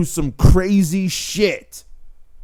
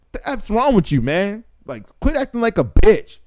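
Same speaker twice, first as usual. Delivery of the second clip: higher, scolding; scornful strict mom; 4 semitones higher than usual. Retold or imitated. Strict mother scolds her crying son, scornful and higher. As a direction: scoff at the crying kid. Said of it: "she would look at me and say".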